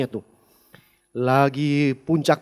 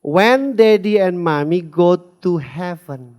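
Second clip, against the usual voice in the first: drawn-out question in English, loud and slow; little child asking, slow and loud; slow, loud child's question; 6 dB louder, much slower than usual. Retold or imitated. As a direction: voice the six-year-old asking slowly. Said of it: "Anak umur na-, enam tahun".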